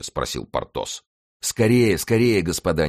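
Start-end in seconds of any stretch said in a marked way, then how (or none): 1.4-2.9 high, loud urging; raised-voice, impatient call; impatient exclamation. A narrator's reading. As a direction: hurry the gentlemen along impatiently. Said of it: "нетерпеливо воскликнул Мардаунт".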